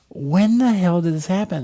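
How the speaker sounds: high, loud angry question; pissed-off demand. Retold or imitated. Retelling finding the damaged seat, angry shout. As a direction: demand an answer from nobody. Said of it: "I am so pissed".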